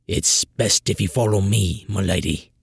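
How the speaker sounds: a hint of a grieving guard; somber. A narrator's reading. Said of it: "he finally said somberly".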